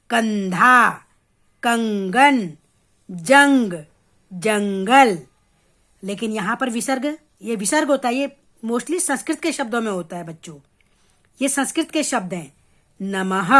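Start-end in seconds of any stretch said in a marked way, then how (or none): 0.1-5.2 "कंधा, कंगन, जंग, जंगल" slow, holding the nasal n; anusvara n-sound. Shown as a demonstration. Teacher showing children the anusvara in "कंधा, कंगन, जंग, जंगल", held n sound. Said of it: "नौ की sound दे रहा है". 13.0-13.5 "नमः" lower, ending on a clear breathed "ha"; visarga ha-sound. Shown as a demonstration. Teacher showing children the visarga in "नमः", a distinct final ha. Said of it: "पीछे हौ की sound देगा".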